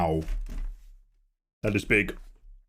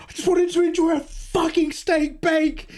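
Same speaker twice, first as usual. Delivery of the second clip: much higher, strained whining rant; high, whiny mock tantrum; indignant rant. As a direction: complain like a wronged child. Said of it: "I was just like".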